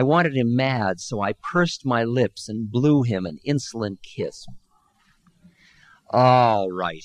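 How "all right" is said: hollered. Acted. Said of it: "he hollered".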